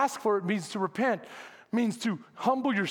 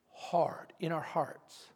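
whisper; 5 semitones lower, 7 dB quieter, slower than usual. Real, not acted. Preacher drops to a whisper.

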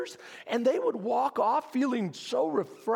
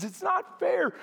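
exasperated whine, higher and raised; complaining to God; 5 semitones higher than usual. Retold or imitated. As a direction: moan that it's all too much. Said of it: "this is what he says to God".

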